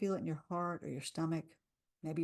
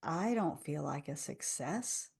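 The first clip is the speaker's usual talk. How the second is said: slower, softer, a touch of doubt; doubtful rebuttal; 4 semitones lower, 4 dB quieter, slower than usual. Shown as a demonstration. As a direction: voice the inner doubt gently. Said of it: "rebuttal round".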